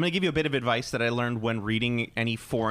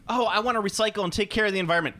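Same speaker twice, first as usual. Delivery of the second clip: mocking voice; 8 semitones higher, faster than usual. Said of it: "it's like".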